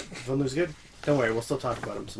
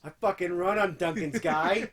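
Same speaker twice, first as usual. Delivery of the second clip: Casey Affleck; 5 semitones higher, 4 dB louder than usual. Retold or imitated. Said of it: "SNL skit with Casey Affleck".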